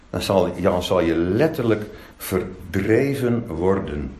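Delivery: low, slow, grave pronouncement; solemn warning. Acted. Dire warning of exile from Moses.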